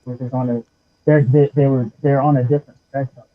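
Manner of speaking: talking through a scarf; compressed mic. Real, not acted. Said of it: "your mic sounds really compressed".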